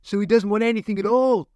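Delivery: caged man shouting at the doctor; shouted. Acted. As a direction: hurl it across the room at her. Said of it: "shouted the man from Gaia".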